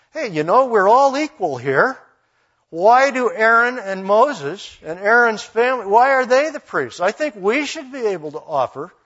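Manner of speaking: mock-indignant challenge; indignant complaint. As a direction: argue like an aggrieved rival. Rebels' complaint to Aaron acted out.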